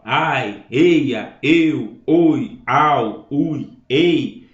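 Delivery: each vowel cluster said out loud and clear; demo vowel clusters. Shown as a demonstration. Teacher sounding out vowel clusters to students, loud and clear. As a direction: sound out every cluster for the class. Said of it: "vários encontros vocálicos, ó".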